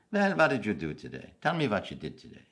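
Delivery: imitated German-accented grandfather; thick accent. Grandfather coaxing a story from his small grandchild, thick German accent. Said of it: "He said in his thick accent".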